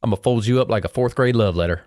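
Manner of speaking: lightly imitated Southern accent; granddaddy's fighting saying in a put-on Southern twang; borrowed Southern accent. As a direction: pitch the fighting threat in a mock Southern accent. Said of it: "pitch 'em in, in your accent".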